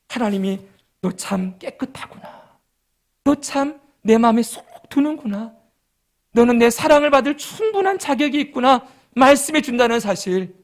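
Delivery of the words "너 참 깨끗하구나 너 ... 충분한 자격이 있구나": tender voice of God. Acted. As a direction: speak it gently like a loving father.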